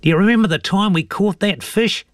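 put-on high-pitched old fisherman voice; high character voice for an old bloke; old mate Bill. A narrator's reading. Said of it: "said Bill".

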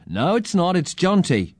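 put-on high-pitched childish correction; protesting boy. A narrator's reading. Boy corrects the girl about his name, high protest.

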